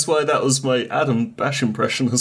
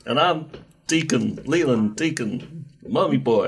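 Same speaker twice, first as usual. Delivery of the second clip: generic American impression. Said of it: "my generic American impression".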